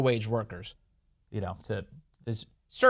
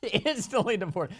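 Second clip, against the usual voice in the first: slow, higher, amused mock voice; drawn-out chuckling punchline; laughing repeat; 6 semitones higher, slower than usual. Shown as a demonstration. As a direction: savor it through a laugh. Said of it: "repeated slower, laughing".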